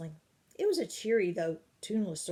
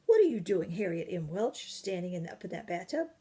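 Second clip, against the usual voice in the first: fierce nanny; 5 dB louder than usual. Acted. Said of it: "Old Golly looked exceedingly fierce".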